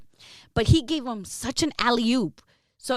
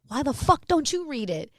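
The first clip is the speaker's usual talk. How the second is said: retold anger; 5 semitones higher than usual. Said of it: "I got so angry at him".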